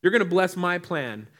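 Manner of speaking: high, loud bargaining plea to God; Abraham pleading. Retold or imitated. Abraham bargaining with God to bless Ishmael, high loud plea. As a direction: beg God hard to bless your own plan. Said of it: "He says".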